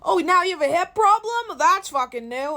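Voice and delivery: high, loud sarcastic jab, slowing on the last line; mock incredulous. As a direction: sneer it like a dismissive know-it-all. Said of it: "people are like".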